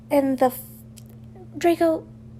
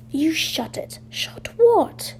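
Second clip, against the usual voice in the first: whispering; 4 semitones higher than usual. Acted. Bickering in the dorm at night.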